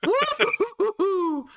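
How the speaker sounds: slow, gloating glee, ending in a high whoop; gleeful. Real, not acted. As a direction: savour the disaster, then whoop. GM delights at double nat one.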